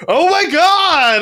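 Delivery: high, drawn-out excited squeal. Retold or imitated. Players gasping at hot portraits, giddy squeal. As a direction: gasp it out, thrilled and giddy. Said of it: "everyone was like".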